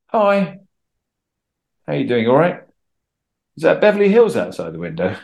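easy greeting with a high, light "hi"; friendly, confident. Shown as a demonstration. Actor walking into an audition, friendly and confident. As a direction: breeze in relaxed, without fawning. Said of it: "I'm gonna be friendly without being ingratiating".

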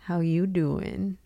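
slow, drawn-out come-on; Wendy Williams or Joey catchphrase. Acted. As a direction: lightly imitate a flirty TV catchphrase. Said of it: "do I sound like Wendy Williams".

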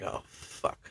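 breathy whispered "Oh, fuck", almost no voice; a stunned whisper to yourself; whispered curse. Retold or imitated. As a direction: let it slip out under your breath in shock. Retold shock on hearing of death.

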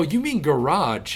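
GARAGE said slowly as guh-RAHZH; garage with end stress. Retold or imitated. Correcting a friend's word for where the spider was, GARAGE as guh-RAHZH. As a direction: stretch GARAGE, stress on the second syllable. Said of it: "I'm like".

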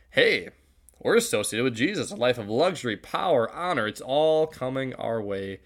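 lightly acted eager boasting; a touch of gleeful self-importance; mildly hammed-up excitement. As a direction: build the list with rising relish, then stretch the ending. Imagined thoughts of excited disciples.

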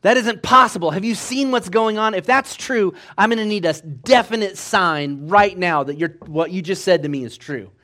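high-pitched indignant disbelief; retold anger. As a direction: act out an angry, incredulous demand. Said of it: "Now Mario's really angry".

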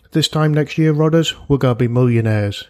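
cocky Cockney dreamer promising riches; Del. Acted. Del telling Rodney they'll get rich, Cockney wide boy. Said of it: "good old Cockney wide boy Del".

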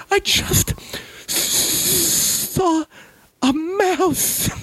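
a mom too scared to move. Retold or imitated. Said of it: "mother reveals the mouse".

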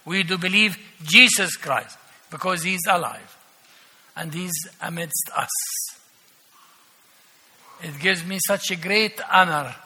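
ordinary talk

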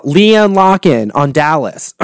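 slow, voice giving out; voice going. Real, not acted. Naming a favourite reality star, voice going. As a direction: let the voice go on LEANNE LOCKEN. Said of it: "God, there goes my voice".

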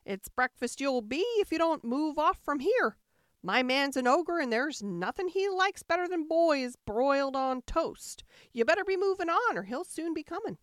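loud, high, fierce warning; loud warning giantess. Acted. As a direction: shoo the boy away, loud and fast. Giantess warns Jack off.

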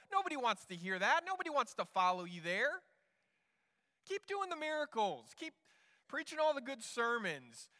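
impatient friend egging someone on; exasperated urging. Acted. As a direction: push him to act, increasingly insistent. Acting Peter urging Jesus to show off.

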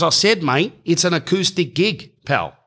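acted-out pub man, high-pitched and insistent; exasperated insistence.

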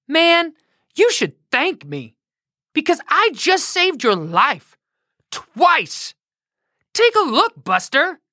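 high, laid-back dude voice; a donkey playing it cool; cool talking donkey. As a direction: talk like a chill surfer donkey. Donkey speaks to Balaam.

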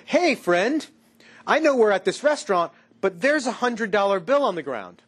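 lightly acted hint to a pal; sly friend. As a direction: float it to a friend as a hypothetical.

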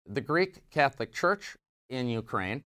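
ordinary delivery

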